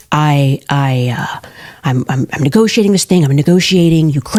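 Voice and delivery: a light Trump voice, barely changed; lightly voiced Trump; Trump impression. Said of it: "listen to that impression".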